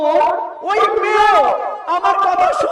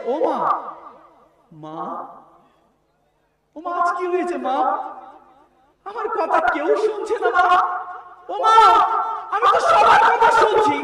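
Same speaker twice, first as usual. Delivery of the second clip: dead man crying out; 4 dB quieter than usual. Acted. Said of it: "মুর্দা চিৎকার করে বলে".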